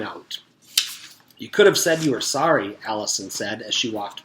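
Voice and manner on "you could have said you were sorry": reproachful. Acted. Scolding classmates who pushed her.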